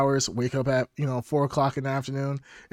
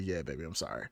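soft mock apology; 10 semitones lower, 15 dB quieter than usual. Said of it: "I'm like".

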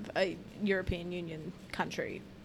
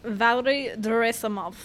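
put-on Russian accent; 7 dB louder than usual. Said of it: "You, you do a better Russian accent. Go for it".

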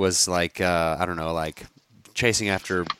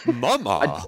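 kid impression. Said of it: "your impression of your kids".

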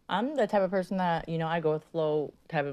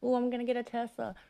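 higher, breathless daydreaming gush; imitating her own excited thoughts, pitched up; mock giddy fangirl; 7 semitones higher than usual. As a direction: gush like a starstruck fan, half-joking. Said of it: "'cause I'm like".

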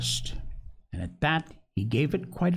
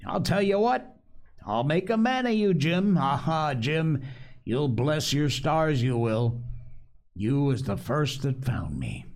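excited castaway. Acted. Castaway promising the boy a fortune, excited. Narrator voices castaway Ben Gunn.

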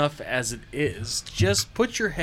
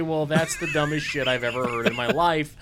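retort. Retold or imitated. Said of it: "I'm gonna say".

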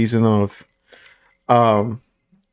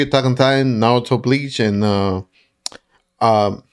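tipsy; 3 semitones lower than usual. Real, not acted. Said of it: "Sorry, I'm a little bit drunk".

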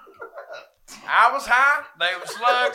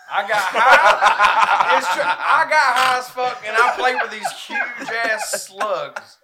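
laughing; 5 dB louder, slower than usual. Real, not acted. Laughing story about getting high.

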